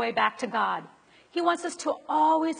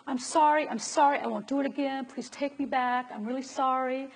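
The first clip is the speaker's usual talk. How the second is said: imitating begging. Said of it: "Do you beg God".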